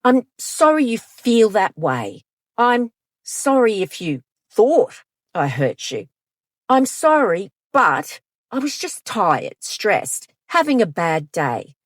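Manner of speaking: hollow sorry that shifts the blame; insincere, defensive non-apology; fake apology. Shown as a demonstration. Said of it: "and a fake apology".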